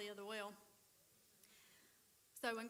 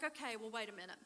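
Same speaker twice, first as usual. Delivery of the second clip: whiny bargaining; faster than usual. Retold or imitated. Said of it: "So then he's like".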